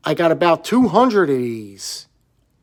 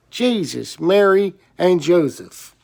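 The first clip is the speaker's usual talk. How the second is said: grandmother's exclamation; 2 semitones higher than usual. Retold or imitated. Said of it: "as my grandmother would say".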